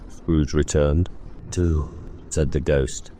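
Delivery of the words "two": ghost's voice. Acted. Ghost speaks.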